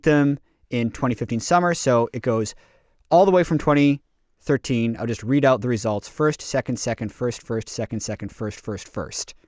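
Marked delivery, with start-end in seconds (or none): 6.1-9.3 each result softer, trailing off; fading list. Acted. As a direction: read the list as it fades away.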